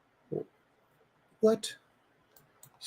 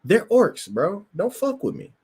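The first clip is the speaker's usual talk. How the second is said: high-pitched, fed-up plea; exasperated plea; 9 semitones higher than usual. Retold or imitated. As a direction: whine it up high like a fan who's had enough. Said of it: "And it's like".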